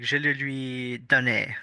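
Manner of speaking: lightly French-accented Je le lui donnais. Shown as a demonstration. Giving a friend a French example, lightly French-accented. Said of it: "you can have, like".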